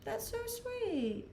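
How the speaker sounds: high, soft and slow cooing; touched. Real, not acted. Streamer touched by a kind chat comment, high slow coo. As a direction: coo it like you're melting over a sweet message.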